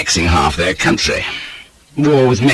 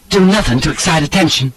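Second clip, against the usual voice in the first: high, tense command; stern woman's voice, pitched up; tight with anger; 8 semitones higher than usual. A narrator's reading. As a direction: warn sharply with contained anger. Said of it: "Her mouth was tight with anger".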